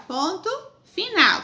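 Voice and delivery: ordinary delivery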